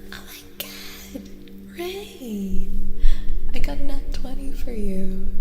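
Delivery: hushed awe rising to loud delight; building excitement. Real, not acted. Streamer rolls a twenty for Ray, awe building to excitement. Rolled a natural twenty for viewer.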